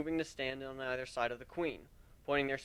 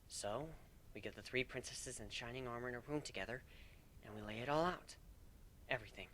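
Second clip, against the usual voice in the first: soft, hesitant voice; worried, unsure of the plan; uncertain; 15 dB quieter than usual. Acted. Kuno worrying aloud to Warren, soft and uncertain. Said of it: "Kuno said uncertainly".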